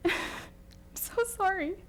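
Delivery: real tears cracking the voice; crying apology. Real, not acted. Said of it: "I spent most of my time crying".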